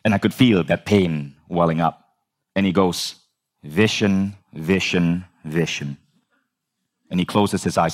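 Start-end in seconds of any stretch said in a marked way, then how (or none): 3.6-6.0 imitated deep voice, sinking with each word; Bob Proctor. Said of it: "really, really deep voice".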